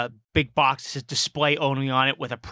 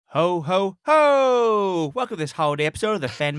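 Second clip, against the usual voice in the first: jolly elf voice, bigger ho ho; christmas elf; 6 semitones higher, 3 dB louder than usual. Acted. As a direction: play the holiday elf host. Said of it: "Funnier the second time around".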